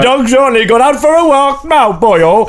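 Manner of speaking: rough attempt at a Welsh lilt; comic, slipping Welsh accent. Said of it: "It's a Welsh accent".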